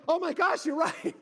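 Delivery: high, loud mock amazement; astonished realisation. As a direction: act out it suddenly dawning on you. Sudden realisation, retold.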